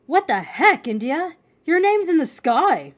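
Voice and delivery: loud, high disbelief; amazed outburst. Acted. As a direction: blurt it out in astonishment. Finn amazed at sister's name.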